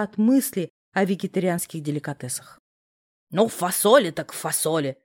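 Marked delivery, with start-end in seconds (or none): 3.3-5.0 agreeably. A narrator's reading. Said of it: "покладисто согласилась тётушка".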